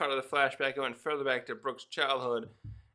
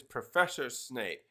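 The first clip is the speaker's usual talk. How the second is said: mock formal title; 4 semitones lower, slower than usual. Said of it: "Dumbledore a number of times always says".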